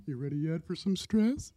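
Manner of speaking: soft, sneaky voice of lurking stress; quietly taunting, as if from round a corner; stress personified. Pretend. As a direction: play stress creeping up on someone.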